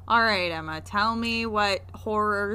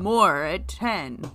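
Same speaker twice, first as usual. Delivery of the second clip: newscaster; 3 semitones lower, much slower than usual. Pretend. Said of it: "make me feel like a newscaster".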